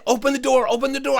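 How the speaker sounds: high-pitched repeated plea; imitated frantic schoolgirl; frantic urging. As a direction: urge him in a panicky high voice. Girl urges him frantically.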